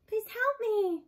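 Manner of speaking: a robot mimicking a wounded calf. A narrator's reading. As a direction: mimic a hurt calf crying for help. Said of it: "The calf's voice continued crying out".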